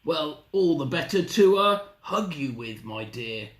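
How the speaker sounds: lightly growled fake Granny, dropping at the end; a hint of a growly wolf in disguise; growling wolf. Wolf posing as Granny, light growl. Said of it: "growled the wolf".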